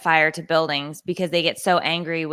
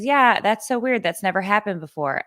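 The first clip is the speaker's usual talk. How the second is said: higher-pitched imitation of clerk; mock store clerk; 4 semitones higher than usual. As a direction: lightly mimic a useless employee's sympathy.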